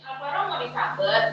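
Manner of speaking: mock threat, lightly teasing; half-joking warning to the child. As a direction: tease him with a pretend threat. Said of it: "sampai saya godain gini".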